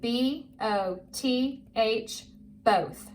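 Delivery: slow, letter by letter, then the word; measured spelling drill, each letter apart. Shown as a demonstration. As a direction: spell it slowly for a young reader. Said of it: "Now you do it with me".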